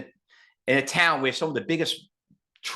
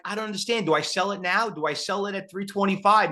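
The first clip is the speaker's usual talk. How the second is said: freaking out; 5 semitones higher than usual. Retold or imitated. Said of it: "you're here freaking out".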